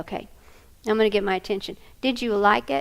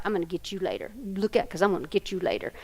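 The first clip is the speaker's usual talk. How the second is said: seething threat; 3 semitones lower, 5 dB quieter, faster than usual. Retold or imitated. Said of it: "they're just seething at each other".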